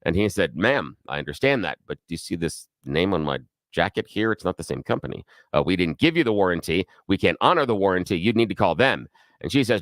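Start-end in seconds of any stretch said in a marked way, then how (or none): 0.6-9.1 lower, matter-of-fact repairman voice; lightly voiced tired repairman; repairman's voice. Host voicing the repairman telling the customer her dryer is broken, lower and matter-of-fact.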